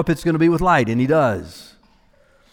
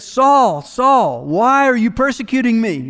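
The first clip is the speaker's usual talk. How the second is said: each "Saul" landed hard and raised; emphatic, emotional quote; 4 semitones higher than usual. Retold or imitated. Preacher quoting the voice to Saul on the road, emphatic and personal. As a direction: voice Jesus' personal appeal, pressing on the doubled name. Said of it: "Double name, emphasis, emotion, personal".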